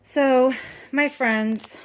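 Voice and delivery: breathless, talking fast; winded from nonstop talking; out of breath. Real, not acted. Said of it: "I'm out of breath".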